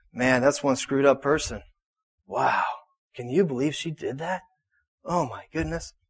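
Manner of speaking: low, hushed, judgmental, gossipy murmur under the breath.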